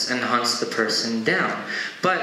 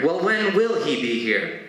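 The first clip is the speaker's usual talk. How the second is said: mildly irritated question, pitched up; a little pissed; 4 semitones higher than usual. Retold or imitated. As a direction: press them with a touch of annoyance. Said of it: "this time he's a little pissed".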